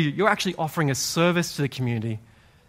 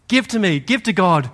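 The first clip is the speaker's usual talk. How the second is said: raised, louder call to passersby; beggar calling out; 3 semitones higher, 4 dB louder than usual. Acted. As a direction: call out the challenge. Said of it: "They would yell out".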